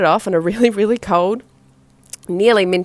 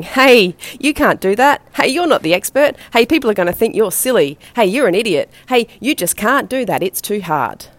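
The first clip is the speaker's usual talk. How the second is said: higher taunting inner voice of fear, heckling; 3 semitones higher than usual. Retold or imitated. Fears waving a red flag at an entrepreneur, taunting. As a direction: needle yourself like a nagging doubt. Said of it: "wave you down with a big red flag going".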